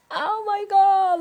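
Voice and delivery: high, loud astonished exclamation; surprised. Real, not acted. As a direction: gasp at the picture. Reader reacts to picture.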